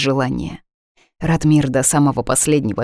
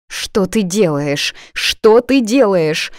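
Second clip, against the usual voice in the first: wailing lament; 4 semitones higher, slower than usual. Acted. Friend wails as heroine types the comment, slow wailing. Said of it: "запричитала подруга".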